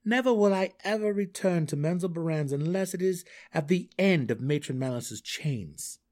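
defiant hero's declaration; emphatic Drizzt. A narrator's reading.

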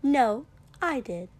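amused exasperation; eye-rolling. Acted. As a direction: roll your eyes as you say it. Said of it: "rolling her eyes".

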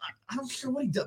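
unvoiced, fast whisper; whispered aside. Real, not acted. Whispering dismissively to friends about Billy Gunn. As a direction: mutter it under your breath.

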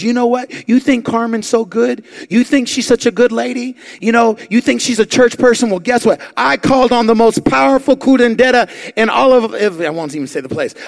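loud, high, spiteful taunt; taunting rant. Retold or imitated. Old lady boasting to the church about cursing Carmen, loud spiteful taunt. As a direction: throw it in their faces, gloating. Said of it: "she goes".

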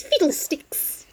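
whispered fiddlesticks. Retold or imitated. Echoing Jo's retort.

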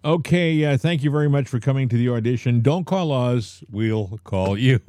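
lightly acted brush-off from an audition; mock casting director.

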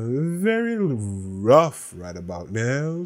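slow, drawn-out repeat, Very leaned on; dragged-out rueful echo; slow emphatic repeat. Shown as a demonstration. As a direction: say it again slowly to let it sink in.

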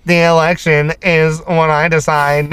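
put-on slow, lightly done Russian accent; a put-on Russian villain, barely there; weird Russian accent. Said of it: "Is that a Russian accent?".

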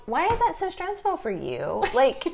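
high-pitched, incredulous pleading; comic end-of-patience protest; exasperated parent. Retold or imitated.

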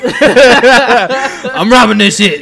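loud, slow cowboy robber drawl; bank robber. Pretend. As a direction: ham up a western outlaw.

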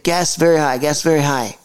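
lightly voiced halting foreign driver; imitated Uber driver. Driver questioning his passenger, lightly imitated limited English. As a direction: mimic a driver with very little English. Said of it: "he could barely speak English".

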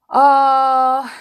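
long, loud grave "Ah". A narrator's reading. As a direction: hold it out as if very wise. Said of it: "very gravely".

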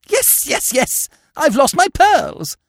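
high, agitated aunt; frantic, impatient, pitched right up; exasperated wail. Acted. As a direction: cry out the loss, drawing out the end. Distraught aunt reports lost pearls.

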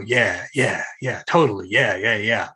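just nod them along; dismissive agreeing. Shown as a demonstration. Advising friends how to brush off conspiracy talk, dismissive agreeing. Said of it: "all you gotta do is agree".

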